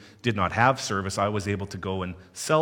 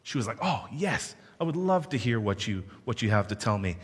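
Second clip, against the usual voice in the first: imitating excitement; 2 semitones higher than usual. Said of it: "And she was so excited".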